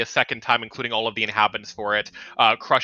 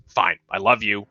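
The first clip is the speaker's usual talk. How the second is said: lower-pitched, resigned giving in; mildly exasperated affection; grudging sigh; 4 semitones lower than usual. Acted. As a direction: concede with a weary sigh. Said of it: "gives, like, a long sigh".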